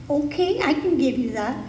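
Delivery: the universe saying yes, pitch jumping up on okay; the universe answering. Acted. The universe replying to a listener who wants lack, lightly voiced. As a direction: answer as a generous universe, rising and open. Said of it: "the universe always says yes".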